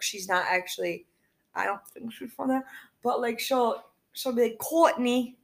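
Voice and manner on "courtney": lightly put-on Boston accent, dropped R; joking Boston accent. Store manager calling an employee by name, mock Boston accent. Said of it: "a Boston accent".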